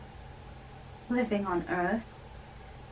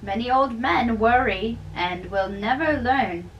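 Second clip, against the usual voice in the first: raised, loud and jovial; cheerful old friar; 4 dB louder than usual. Acted. Old friar teasing the young man at dawn, loud and jovial. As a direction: tease the young man heartily, voice up.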